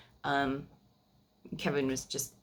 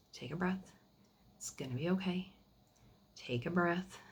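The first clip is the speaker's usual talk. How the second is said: soft, slightly raised, gently reassuring; calming down; 3 semitones higher, 6 dB quieter than usual. Retold or imitated. Dad calming his hysterical daughter on the phone, softly reassuring. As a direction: imitate a parent softly soothing someone. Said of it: "calm me down".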